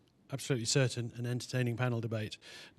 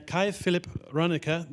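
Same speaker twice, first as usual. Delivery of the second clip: name read slowly with a light mock French accent; 4 semitones higher, slower than usual. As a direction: try the name Kai Philipp Rönecke in your best French accent. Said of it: "in my best French accent".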